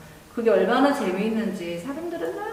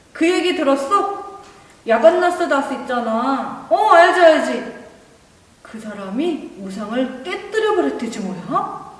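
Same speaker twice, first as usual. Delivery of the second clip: excited gossip; 3 semitones higher, 5 dB louder than usual. Acted.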